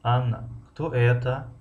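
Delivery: slow кто это with это stretched and lifted; lingering, rising это; stress on the ending. Shown as a demonstration. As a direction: keep Анна light, draw out это upward. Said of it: "охири ҷумларо".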